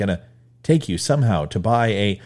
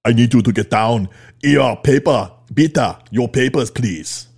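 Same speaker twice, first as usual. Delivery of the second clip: loud, hammed-up German officer; German accent; 5 dB louder than usual. Host playing an officer ordering someone down and demanding papers, mock German accent. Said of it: "what's wrong with my German accent".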